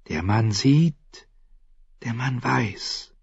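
slow, hushed mysterious stranger; drawn-out cryptic assassin voice; slow mysterious man. Acted.

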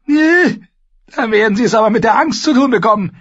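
high, loud, fast sarcastic queen; dry sarcasm. Acted. Queen mocking the Imp's sortie, dry and sarcastic. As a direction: toss the line off dryly. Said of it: "sagte die Königin trocken".

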